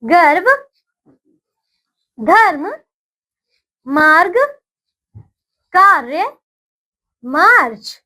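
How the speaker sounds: put-on slow, clearly spaced words for children to repeat; teacher's call-and-repeat drill; repeat after me. Shown as a demonstration. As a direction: say each word cleanly, pausing for the class to echo. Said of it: "बोलिए मेरे साथ".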